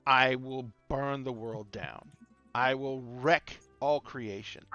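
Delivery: slow menacing vow. Acted. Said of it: "the Lich says".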